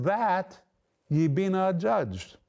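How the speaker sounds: "That" set apart, then a pause; stress on THAT. Shown as a demonstration. Preacher pointing listeners to one word of the verse, stress on "That". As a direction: lean on "That", then finish the verse slowly.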